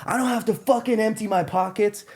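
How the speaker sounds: high, mocking drunk-guy voice; squeaky caricature of a drunk jerk; mimicking the drunk thief. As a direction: ham up the belligerent drunk refusing. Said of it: "He's like".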